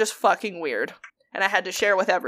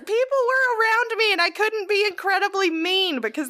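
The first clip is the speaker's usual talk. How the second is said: laughing through the words; half-laughing as she explains; 11 semitones higher than usual. Real, not acted. Laughing while telling a friend about work.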